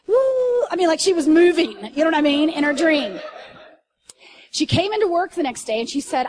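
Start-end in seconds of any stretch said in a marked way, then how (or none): 0.1-0.1 imitated wake-up whoop. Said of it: "this is how she woke up".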